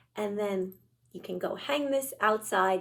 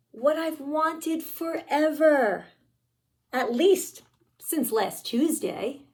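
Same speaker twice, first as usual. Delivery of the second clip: pigeon voice; 3 semitones higher, slower than usual. Acted. Pigeon's dreamy wish, read aloud.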